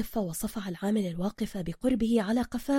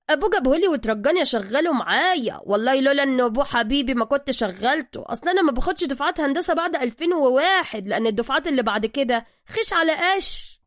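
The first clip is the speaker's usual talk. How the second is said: bragging boss, higher and louder; boastful; 4 semitones higher, 6 dB louder than usual. Acted. Zergina bragging to his visitors, higher and louder. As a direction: show off your assistant. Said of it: "متفاخرا".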